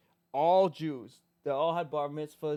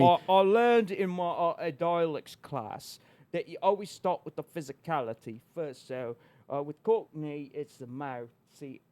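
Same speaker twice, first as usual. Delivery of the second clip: acting-student Cockney, talking from the mouth; Cockney accent. Shown as a demonstration. Explaining a dialects class, Cockney accent. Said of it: "Uh, Cockney".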